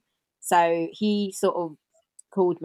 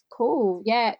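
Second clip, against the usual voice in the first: higher, half-hearted show of interest; feigned excitement; 5 semitones higher than usual. Retold or imitated. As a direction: mimic a husband faking excitement. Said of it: "feigning he's that excited".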